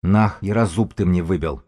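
"зуб" lisped as through a broken tooth; slurred, hurt-mouth grumble; lisping. A narrator's reading. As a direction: complain with a mushy lisp. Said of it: "прошепелявил он".

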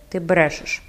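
cold, even "Ти брешеш" with a falling end; mildly cold, understated "Ти брешеш"; coldly. Acted. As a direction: repeat "Ти брешеш" with icy calm, falling. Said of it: "холодно повторила примара".

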